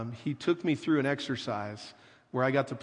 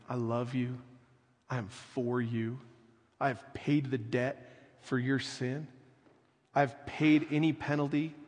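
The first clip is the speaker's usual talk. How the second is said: tender Jesus voice. Retold or imitated. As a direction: speak to Tony like a loving Jesus, gently. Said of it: "I do a really good Jesus impersonation".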